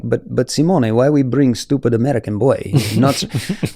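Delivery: mildly mocking Russian accent; lightly put-on Russian English. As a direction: imitate a grumbling Russian climber. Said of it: "he's Russian. And he, we would just sit there and be like".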